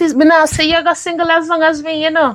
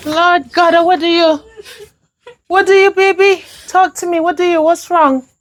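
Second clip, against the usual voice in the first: higher-pitched, worried questioning; alarmed concern; 4 semitones higher than usual. Acted. Mother asks her upset daughter what's wrong, alarmed. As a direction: press anxiously for an answer.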